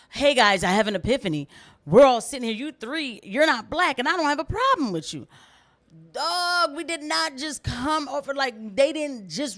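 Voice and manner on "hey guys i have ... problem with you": mocking. Mocking a white guest's remark.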